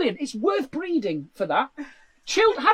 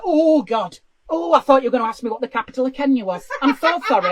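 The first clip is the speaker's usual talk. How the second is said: hammed-up flustered panic, louder and fast; mock shocked customer; 5 dB louder than usual. Customer caught off guard at the drive-thru, mock flustered. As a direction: play a customer thrown by a simple question. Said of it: "they seem to be shocked when they go".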